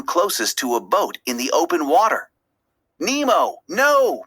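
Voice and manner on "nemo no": high, urgent cry to his son; alarmed cry. A narrator's reading. Father fish crying out to son near boat, high alarmed cry. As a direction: call out in fright for Nemo. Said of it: "Marlin cried".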